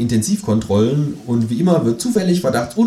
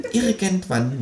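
softer, high muttering; murmured; 10 semitones higher, 5 dB quieter, slower than usual. A narrator's reading. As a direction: mutter it under the breath. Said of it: "murmelt das Känguru".

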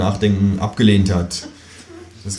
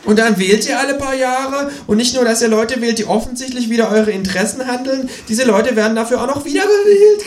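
high croaky kangaroo voice, much higher; croaking kangaroo; 4 dB louder than usual. A narrator's reading. Kangaroo croaks at humans voting like fools. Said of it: "krächzt das Känguru".

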